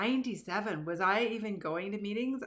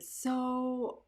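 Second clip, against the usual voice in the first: higher, very slow, mock disbelief; incredulous; 7 semitones higher, much slower than usual. Guy confronting the speaker after her talk, slow incredulous drawl. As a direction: draw it out like you can't believe it. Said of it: "he came up to me and he said".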